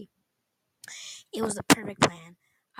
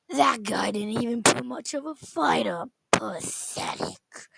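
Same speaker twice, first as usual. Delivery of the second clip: snarling; 2 semitones higher, slower than usual. Acted. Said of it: "he snarled".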